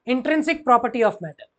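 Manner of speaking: stretched-out definition, word by word; slow dictation. Shown as a demonstration. Teacher to class, dictating the definition slowly. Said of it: "teacher dictating definition slowly".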